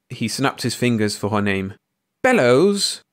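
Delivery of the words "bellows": high, loud correction; indignant cry. A narrator's reading. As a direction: cry out your own name at him. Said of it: "she cried".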